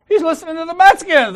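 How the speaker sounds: loud mock bark of shut up; a mild imitated scolding; gruff order. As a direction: cut them off, boss style. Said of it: "He goes".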